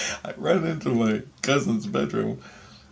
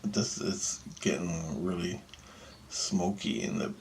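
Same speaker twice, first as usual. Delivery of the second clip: whisper; 4 semitones lower, 11 dB quieter, slower than usual. Real, not acted. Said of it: "whispered retelling".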